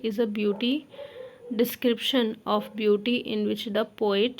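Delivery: slow, spaced-out dictation pace; teacher dictating notes slowly. Shown as a demonstration. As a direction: spell out each phrase for note-taking. Dictating lesson plan text.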